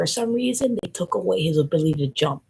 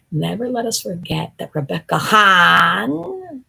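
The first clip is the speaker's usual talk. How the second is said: proclamation; 8 dB louder, slower than usual. Acted. Proclaiming name solemnly.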